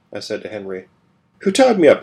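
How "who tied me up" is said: sharp, high indignant question. A narrator's reading. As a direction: demand it in outrage.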